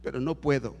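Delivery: low, soft retelling of a weeping woman; subdued tearful plea. Retold or imitated. Crying woman telling the pastor she cannot be baptized, subdued sorrow. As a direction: plead quietly, with a touch of sorrow. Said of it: "Y lloraba, decía".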